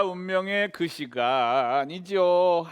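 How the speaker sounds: very slow, weighty build-up; slow dramatic. Real, not acted. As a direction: drag it out for suspense. Dramatic tasting moment.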